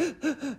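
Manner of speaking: a sharp, high, caught gasp like someone sobbing; short demo gasp of crying breath; imitated sob gasp. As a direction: mimic gasping for air mid-cry. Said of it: "you're sobbing and you're like".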